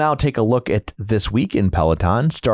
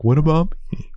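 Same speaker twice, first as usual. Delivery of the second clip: higher-pitched little voice; mock left-out plea; 5 semitones higher than usual. Co-host voicing some guy in shipping, mock plaintive. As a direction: plead lightly as the forgotten one.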